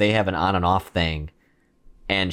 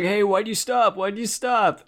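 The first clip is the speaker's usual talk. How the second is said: high-pitched, whiny imitation; mock puzzled complaint; 10 semitones higher than usual. Blindfolded John asks his partner, mock puzzled complaint. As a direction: imitate an oblivious man protesting, voice pitched way up.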